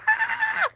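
very high squeaky shriek; delighted shriek. Retold or imitated. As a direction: let out a fangirl squeal. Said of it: "And I was like".

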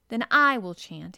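put-on boy declaring he'll chant. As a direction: announce it boldly. Colin about to chant.

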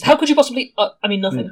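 hammed-up bad liar; shifty suspect. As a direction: overplay the guilty innocent. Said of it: "Over-, overtly suspicious".

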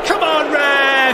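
furious slow shout at the ref; pleading with the referee. Acted. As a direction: bellow it at the referee.

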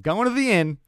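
high, loud radio bark; walkie-talkie call. Retold or imitated. Driver calling his dispatch on the walkie-talkie, loud radio bark. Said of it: "and goes".

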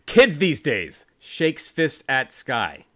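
loud opening, then drawn-out stage direction; hammed-up generational complaint; mock old-timer grumble. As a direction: proclaim it like a pretend cranky elder.

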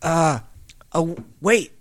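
a hint of a friendly gardener. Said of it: "the gardener says".

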